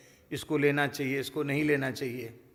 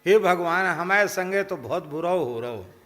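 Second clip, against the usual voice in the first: loud complaining cry; 6 dB louder than usual. Retold or imitated. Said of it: "तो वो जोर से बोला बुड्ढा".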